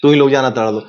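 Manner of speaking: lightly mimicked jibe in the star's tone; imitating the star. Guest shows interviewer how the star said it, light mimicry. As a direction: replay his taunt with light mimicry. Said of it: "जिस tone".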